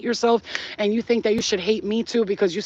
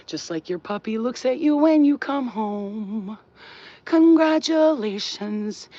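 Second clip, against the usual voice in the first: mock sweet; 4 semitones higher, slower than usual. Mocking fake happy promise.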